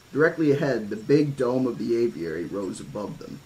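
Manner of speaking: plain reading voice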